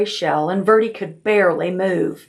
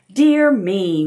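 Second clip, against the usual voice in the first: whining. Acted. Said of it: "whined Aunt Aggie".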